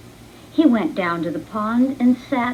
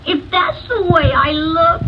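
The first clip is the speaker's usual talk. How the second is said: sad, near tears; 6 semitones higher, 6 dB louder than usual. Acted. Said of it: "he thought sadly".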